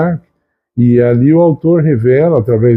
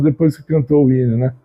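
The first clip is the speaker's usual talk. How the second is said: ordinary talk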